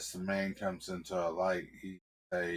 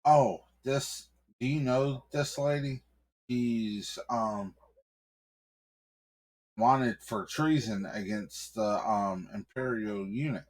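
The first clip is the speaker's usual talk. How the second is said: an officious cop, pitch raised; nervous cop; 3 semitones higher than usual. Acted. Cop addresses returning husband.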